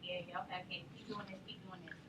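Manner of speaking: soft, low, brushing it off; mock-offhand mom shrugging off her son's cough; dismissive mom. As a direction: wave off your coughing son without looking up. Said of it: "I was like".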